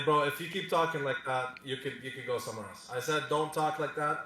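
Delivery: slow, firm, deliberate warning; stern warning. Real, not acted. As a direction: spell out the rule slowly. Warns opponent to stop insulting.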